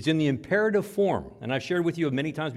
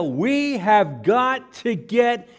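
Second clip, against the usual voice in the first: urgent shout; 5 semitones higher, 5 dB louder, much slower than usual. Shown as a demonstration. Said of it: "almost as a shrieking".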